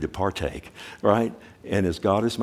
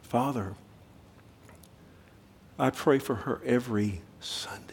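hushed unvoiced plea to God; whispered prayer; 6 dB quieter than usual. Pastor praying to God over the weeping girl, whispered. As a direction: pray it under your breath. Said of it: "I said".

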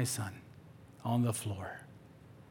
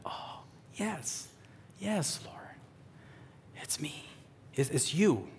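breathy hushed reply to the Lord; hushed prayer; 4 semitones higher, 8 dB quieter than usual. Retold or imitated. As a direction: answer softly, almost whispered, in awe. Voicing his own prayerful reply.

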